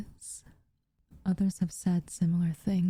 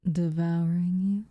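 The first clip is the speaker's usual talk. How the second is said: teasing menace; slower than usual. Acted. Teasing her about being afraid.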